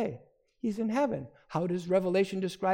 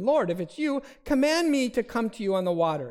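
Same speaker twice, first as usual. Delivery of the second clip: higher, louder, an eager call across the water; eager plea; 6 semitones higher, 4 dB louder than usual. Retold or imitated. Peter calls to Jesus on the water, eager and raised. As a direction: Peter calling out boldly to Jesus.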